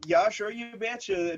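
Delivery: put-on slow, drawn-out North Dakota accent. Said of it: "North Dakota accent that I just wanted to do".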